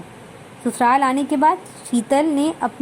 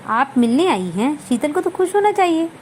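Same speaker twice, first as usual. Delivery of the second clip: sharp tone; 2 semitones higher than usual. Acted. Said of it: "लहजा ज़रा तीखा सा हो जाता".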